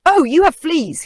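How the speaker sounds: high, loud excited squeak; exclaimed. A narrator's reading. Mouse spots the lion's fleas, high excited exclaim. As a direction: burst out with the discovery. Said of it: "he exclaimed".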